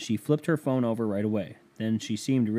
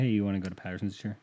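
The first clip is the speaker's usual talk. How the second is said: quick, softer offhand question; casual, in passing; 2 semitones lower, 6 dB quieter, much faster than usual. Retold or imitated. Re-enacting what he asked his girlfriend, casual and in passing. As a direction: rattle it off like an afterthought. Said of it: "I said this in passing".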